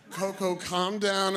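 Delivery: slow imitated attempt at calming; drawn-out pleading. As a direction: stretch each word to settle her. Keeper calming the agitated gorilla.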